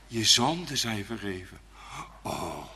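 ordinary talk

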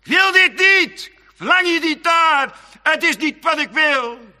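high, loud anguished refusal; crying out. Acted. The heart shouting at the lusts, loud high outcry. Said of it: "iets wat in mijn hart schreeuwt, die zegt".

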